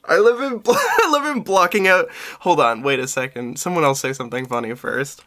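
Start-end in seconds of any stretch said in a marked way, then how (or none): 0.1-2.1 high, louder words broken by laughs; giggling out the words; laughing. Real, not acted. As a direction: laugh through each try. Laughing at Tom.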